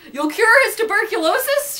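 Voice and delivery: mildly excited cry. A narrator's reading. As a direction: cry out in hope, a touch hammed. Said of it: "she cried".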